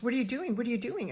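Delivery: toned-down retold yell; imitated yelling. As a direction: re-enact the staff's yelled challenge. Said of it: "they were yelling at us".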